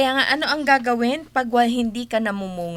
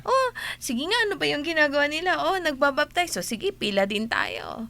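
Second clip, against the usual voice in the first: higher, brisk mock Pharisee chatter; 4 semitones higher than usual. Retelling the gospel, mocks Pharisees lining up for baptism. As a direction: poke fun at the Pharisees joining the line. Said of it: "mga Fariseo".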